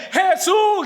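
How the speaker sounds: high, drawn-out cry of the name; insistent beggar's shout. Acted. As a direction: yell to be heard over objectors. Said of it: "gritaban más fuerte".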